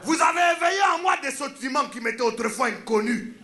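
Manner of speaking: put-on woo her with lofty words in the accent; pompous seducer, African accent. The speaker demonstrating his pickup to a woman, pompous African accent.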